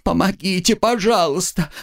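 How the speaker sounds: high, frightened call for help; frantic cry for help. Acted. Student crying to the crowd, high and frightened. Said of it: "На истошные крики".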